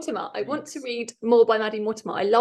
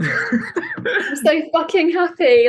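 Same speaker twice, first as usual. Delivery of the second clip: laughing; 6 semitones higher, much slower than usual. Real, not acted. Still celebrating win.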